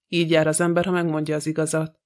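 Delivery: usual speaking voice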